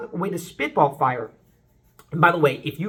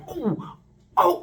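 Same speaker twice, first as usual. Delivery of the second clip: happy oh; 4 semitones higher than usual. Shown as a demonstration. Vocal coach demoing a sound of happiness. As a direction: coo out a happy oh. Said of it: "if I'm happy, like".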